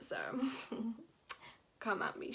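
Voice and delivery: ordinary talk, nothing marked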